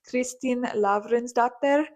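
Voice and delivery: "Kristin Lavransdatter" said slowly, with a Norwegian accent. Shown as a demonstration. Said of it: "like, in a Norwegian accent".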